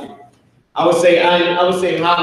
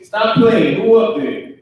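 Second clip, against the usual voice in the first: higher, sharper call up the stairs, half-acted; mock angry parent; 6 semitones higher than usual. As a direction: play the annoyed father calling up. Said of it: "the father is angry".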